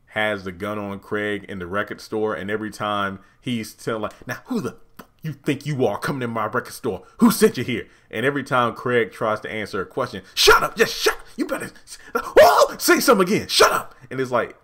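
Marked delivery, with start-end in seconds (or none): 4.3-7.9 quick, threatening thug voice, louder at the end; menacing Pinky. Retold or imitated. Pinky grilling Craig at gunpoint, menacing. Retelling Pinky holding gun in Next Friday. 10.3-13.9 high, loud, strained mock screech; screaming shut up. Pinky screaming at Craig to shut up, shrill rage.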